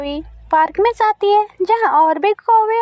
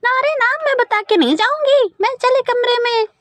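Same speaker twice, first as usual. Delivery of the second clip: higher, suspicious mock yell; shouting mother-in-law; 6 semitones higher, faster than usual. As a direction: snap back at the bahu. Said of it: "जोर से चिल्लाती है". (शक्की सास का चिल्लाना)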